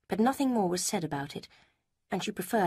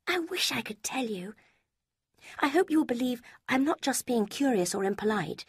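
a higher, lighter voice for Lucy; Lucy, higher voiced; 7 semitones higher than usual. A narrator's reading. Lucy quizzing Eleanor about Mrs Ferrars, higher voice. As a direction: lift the pitch for the young woman Lucy.

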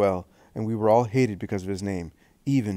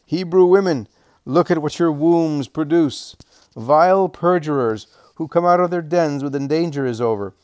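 shrill shout; 5 semitones higher, 6 dB louder than usual. A narrator's reading. Tavern mistress mocks the Hebrew women, a high loud jeering shout. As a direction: screech your contempt at the Hebrew women. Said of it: "she shouts in a shrill voice".

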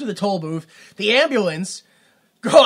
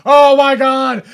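higher, louder, hammed-up excitement; mock ecstatic; 6 semitones higher, 10 dB louder than usual. Retelling his reaction to the movie, hammed-up loud excitement. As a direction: gush like a thrilled fan, slow at the end.

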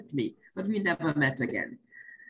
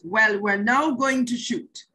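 slow, lightly raised director's call; measured countdown to filming, a touch higher; director's set call; 3 semitones higher, slower than usual. Retold or imitated. Director to nervous actress before the take, slow retold set call. Acting out director calling the shoot.

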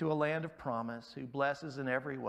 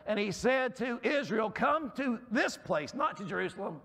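strained, cracking voice; 7 semitones higher than usual. Real, not acted. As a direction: voice cracking on high notes. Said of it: "Losing my voice".

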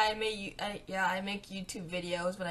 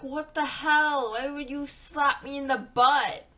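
outraged; 4 semitones higher, 5 dB louder than usual. Retold or imitated. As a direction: snap at the guy who hit you. Retelling being slapped.

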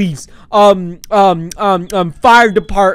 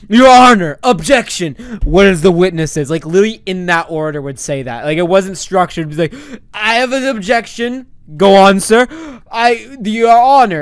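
mock lawyer. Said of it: "Sign was pretending like this was, like, an official court case".

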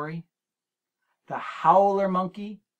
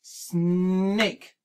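slow, syllable-clapped snake; chunked syllable by syllable; 3 semitones higher, 4 dB louder than usual. Shown as a demonstration. Teacher modelling syllables for a child, clapped and slow. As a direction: say snake as one clear clapped beat. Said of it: "let's say it together".

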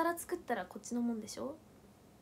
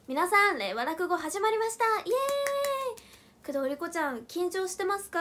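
louder emcee intro with a sung cheer; stage opening call; 4 semitones higher, 7 dB louder than usual. Shown as a demonstration. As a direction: kick off the show and greet the partner. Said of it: "再現すると".

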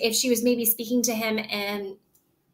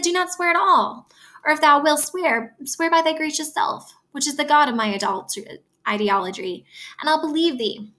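Juliet voiced. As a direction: read Juliet's farewell lightly raised. Reads Juliet higher.

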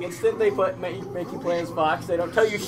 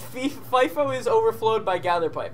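reading error aloud; 5 semitones higher than usual. Retold or imitated. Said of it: "it says".

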